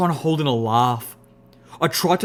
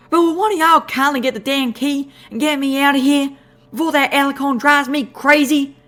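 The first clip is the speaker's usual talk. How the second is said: squeaky critter voice; 12 semitones higher, 5 dB louder than usual. Acted. Squeaky Calamity pleading.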